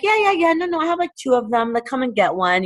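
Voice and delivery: high, eager donor voice that settles down; lightly voiced keen donor; eager donor quote. Donor on the phone, high and eager. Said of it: "They'd be like".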